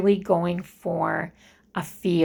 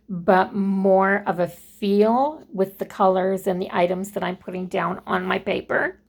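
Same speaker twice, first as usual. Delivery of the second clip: running out of air. Real, not acted. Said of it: "I sound like I'm running out of air".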